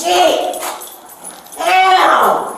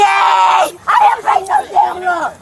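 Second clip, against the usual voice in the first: angry shouting. Real, not acted. Yelling while being carried.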